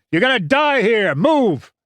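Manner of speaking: high, urgent yelled warning; loud battlefield shout. A narrator's reading. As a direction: yell like a raving madman. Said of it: "Winters yelled".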